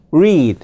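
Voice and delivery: "read" begun with an English R; "read" with a rounded R, not L; English R sound. Shown as a demonstration. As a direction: say "read" with tongue pulled back for R. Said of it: "이게 영어의 R과 L예요".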